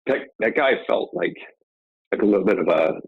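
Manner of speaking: fighting tears while speaking; choking up. Real, not acted. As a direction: voice tight with emotion, holding back tears. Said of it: "I'm choking up a little bit here".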